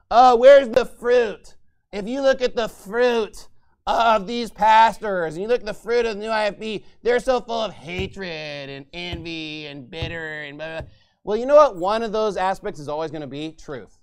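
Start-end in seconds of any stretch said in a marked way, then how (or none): 0.1-10.9 slow, louder mock pious whine; mocking parody. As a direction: sneer at their pious cliché. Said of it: "what these people love to say".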